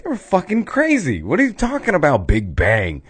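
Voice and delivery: high scoffing future people; hammed-up high ridicule; high mock disbelief. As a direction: squeal it like it's nonsense. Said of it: "they're like".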